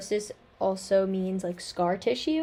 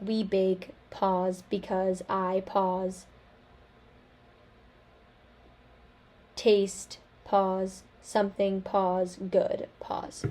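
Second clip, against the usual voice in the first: choppy words split by long pauses; halting dysarthria demo; slower than usual. Shown as a demonstration. Demonstrating dysarthric speech to classmates, halting and paused. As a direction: speak it haltingly, a pause after each word. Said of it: "a speech sample would sound like".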